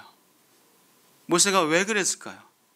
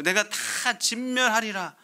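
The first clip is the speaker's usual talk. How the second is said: God's stern decree; 4 semitones higher than usual. Acted. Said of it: "할 때".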